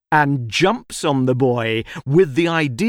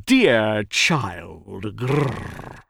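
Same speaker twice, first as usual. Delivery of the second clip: tiger calling; 3 semitones lower, much slower than usual. A narrator's reading. Tiger calls the little girl over, coaxing. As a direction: lower coaxing call ending in a growl. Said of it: "calls the tiger".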